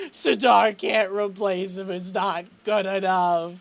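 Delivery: slow, tearful plaint, mildly acted; crying. Chet rejects any replacement for Graham, mildly tearful. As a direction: plead through held-back tears, dragging the words. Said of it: "like, crying".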